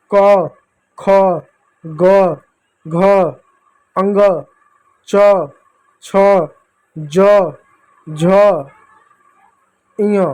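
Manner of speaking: each letter alone with its inherent अ, pauses between; reciting the consonants. Shown as a demonstration. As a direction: sound out the alphabet letter by letter. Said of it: "इन व्यंजकों को पढ़िएगा". (व्यंजन एक-एक करके पढ़ना)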